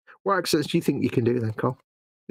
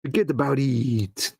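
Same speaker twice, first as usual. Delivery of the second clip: put-on drawn-out New York accent; slow New York wise guy phrasing; slower than usual. Co-host teasing his mate, New York accent. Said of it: "Can you say in New York".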